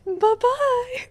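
a hint of a cute boy's whispered goodbye; whispered bye-bye. Mimicking the shy character waving, lightly whispered. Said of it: "He's like".

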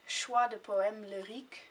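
lightly French title read in a rough French accent; terrible French accent. Shown as a demonstration. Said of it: "my terrible French accent".

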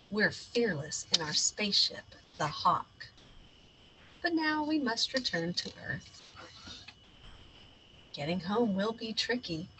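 bold captain narrating his mission; heroic space captain. Acted. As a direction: play the brave space hero. Child hero voices adventure.

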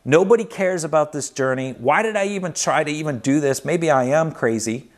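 acted-out frustrated venting; fed-up surrender. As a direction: give up and hand it all over to God. Telling God he gives up.

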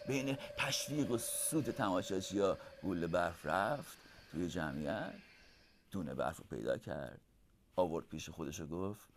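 hushed bedtime-story narration. A narrator's reading.

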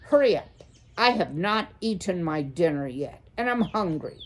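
owl cutting him off, rushing him; impatient bark. Acted. A hungry owl rushing a nervous mouse, impatient bark.

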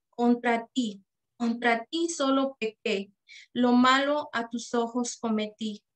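measured psalm reading, pausing after each verse; slow scripture reading. Real, not acted. Lay reader reading Psalm fifty-one for others to note words, slowly. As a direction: read it unhurriedly, verse by verse. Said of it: "voy a leerlo despacito".

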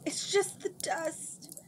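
slow, muffled through a handkerchief. A narrator's reading. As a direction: speak through cloth over mouth. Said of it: "Samarine said in a muffled voice".

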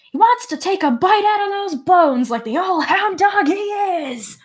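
character voice. Acted. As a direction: voice the taunting NPC up high. GM voicing a character's line.

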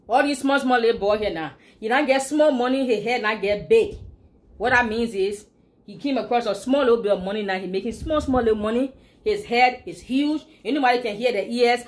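a hint of Liberian English idiom. Shown as a demonstration. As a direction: explain the Liberian saying in mild Liberian English. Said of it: "Learn to speak Liberian English".

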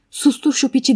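mock yell of someone's sharp order; retold shout. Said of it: "diye bağırdı".

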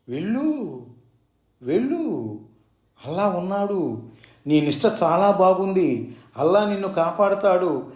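a touch of loving tenderness; mild, fatherly reassurance; full of affection. Acted. Baba blessing Purandare, lightly tender. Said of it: "వాత్సల్యం నిండిన స్వరంతో".

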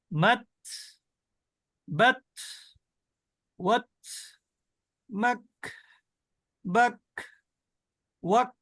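each word ending in a puff of air on the final ত or ক; breath released. Shown as a demonstration. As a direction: release breath after মাত বাত ওয়াত মাক বাক ওয়াক. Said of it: "তাহলে কি হবে".

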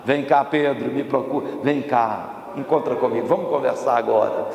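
low, calm invitation; gentle coaxing. Acted. Jesus calls Peter aside to talk, gentle. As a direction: coax him over for a talk.

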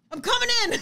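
high, loud retold call; mock yell breaking into a laugh; urgent announcement. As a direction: announce it at full pitch, amused. Retold announcing she jumps in.

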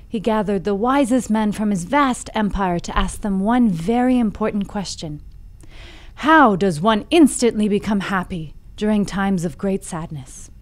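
measured fable storytelling; story narration. A narrator's reading. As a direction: tell it like an old fable, with deliberate phrasing. Reads the fable aloud.

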